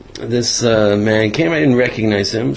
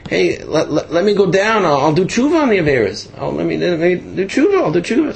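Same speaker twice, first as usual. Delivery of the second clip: mock pleading scream; 7 semitones higher than usual. Yosef begging the heavenly court to return, mock pleading scream. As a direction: beg frantically to be let go, rising each time. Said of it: "I was screaming".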